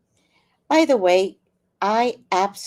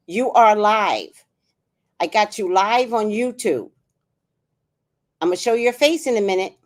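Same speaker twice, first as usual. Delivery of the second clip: loud confrontation; 6 dB louder than usual. Real, not acted. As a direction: drop each word hard on the caller. Answers scammer's call, confronts him.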